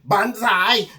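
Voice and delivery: high jumping cry; battle cry. Acted. Little bird jumps from the nest, daredevil cry. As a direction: call it out as you leap.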